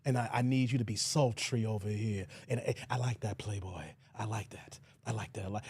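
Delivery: deep, low mock rapper directing; rapper impression. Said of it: "You know how the rapper talking?".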